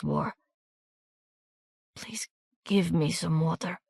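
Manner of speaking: wounded soldier begging Miranda to carry his papers; desperate weak plea. A narrator's reading. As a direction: beg while your strength fails.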